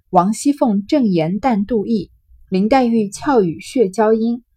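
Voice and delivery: 回目 read out slowly and deliberately; reading the chapter title to students, slow and deliberate. Shown as a demonstration. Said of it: "reads chapter title".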